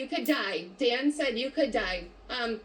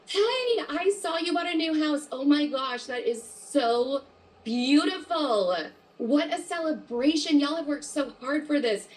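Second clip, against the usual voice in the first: excited congratulations; 4 semitones higher than usual. Shown as a demonstration.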